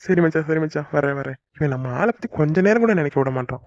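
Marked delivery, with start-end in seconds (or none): 0.1-0.5 laughing okay. Acted. Friend teases him about daydreaming.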